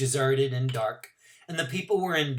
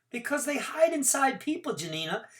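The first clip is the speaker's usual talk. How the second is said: gentle telling; 13 semitones higher, 4 dB louder than usual. Acted. Boy telling girl gently.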